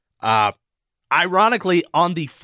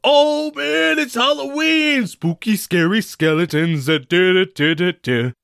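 high, giddy mock Halloween fan; mocking hyped-up fan; 6 semitones higher than usual. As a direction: imitate an overexcited fan singing along. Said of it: "everybody's going crazy and like".

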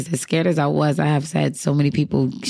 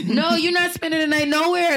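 higher, emphatic put-on no; hammed-up stern refusal; mock firm refusal; 10 semitones higher than usual. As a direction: play the strict relative shutting it down. Voicing strict family's flat refusal.

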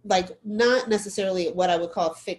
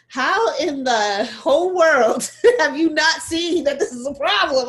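exasperated inner shout; 6 semitones higher, 6 dB louder than usual. Retold or imitated. A Black woman's body screaming at a well-meaning white person, disbelieving shout. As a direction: let the disbelief burst out. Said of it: "my whole flesh is like".

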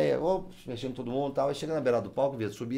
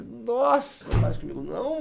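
high-pitched squeamish nossa, a bit louder; squeamish cry; 14 semitones higher, 4 dB louder, slower than usual. Retold or imitated. Telling the driver about his head wound, squeamish and high. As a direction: recoil in disgust, voice jumping up. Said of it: "então eu falei".

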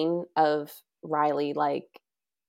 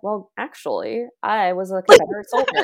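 mock Southern accent; 4 semitones higher, 8 dB louder than usual. Host mocks Jasper's sudden backstory, fake Southern accent. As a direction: imitate a bad Southern accent. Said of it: "have a thick Southern accent until".

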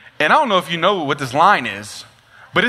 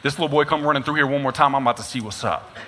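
low muttered threat; 4 semitones lower, 5 dB quieter than usual. Retold or imitated. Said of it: "get a little verbal with my mom and dad".

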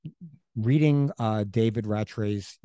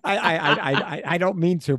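laughing; 6 semitones higher, 4 dB louder, faster than usual. Real, not acted. Laughing after the voice joke.

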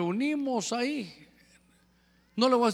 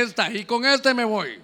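defiant woman; 3 semitones higher, 4 dB louder than usual. Retold or imitated. Woman in love insists on her man, defiant imitation. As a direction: imitate a headstrong woman, raising the voice.

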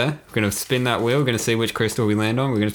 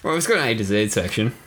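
put-on Kiwi accent. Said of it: "Just turned Kiwi for a second".

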